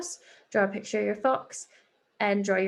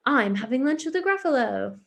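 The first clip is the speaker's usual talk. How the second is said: exciting; 3 semitones higher, 4 dB louder than usual. Shown as a demonstration. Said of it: "exclamation mark to show that it's an exciting".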